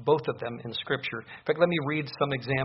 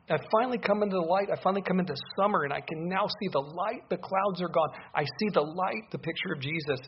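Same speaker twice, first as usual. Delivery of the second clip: excited believer; 5 semitones higher than usual. Pretend. Believer's voice after meeting the Lord.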